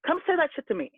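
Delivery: high-pitched furious rant, held back in volume; retold screaming rant. Sibling going off at man who insulted twin, retold screaming. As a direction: re-enact an outraged yell, pitch climbing. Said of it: "I just started screaming and yelling and going off".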